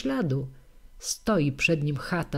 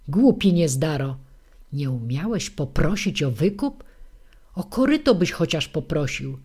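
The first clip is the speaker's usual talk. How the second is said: put-on scolding old woman; 3 dB louder than usual. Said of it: "Jak nie zacznie starucha wymyślać".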